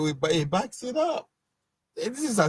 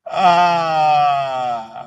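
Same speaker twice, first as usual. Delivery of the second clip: real laughter; 7 dB louder than usual. Real, not acted. Host explains what he pictures happening, laughing. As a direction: let the laugh subside as you explain it. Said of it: "I'm laughing because".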